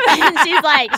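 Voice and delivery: loud laugh through the words; real laughter breaking in. Real, not acted. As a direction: laugh it out, slowed down. Laughing while retelling.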